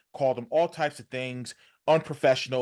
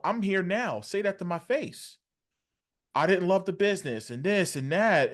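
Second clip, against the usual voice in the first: raised-pitch retold callout; defiant challenge; 6 semitones higher than usual. Warrior answering the smear campaign, defiant challenge. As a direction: voice a wrestler confronting his critics.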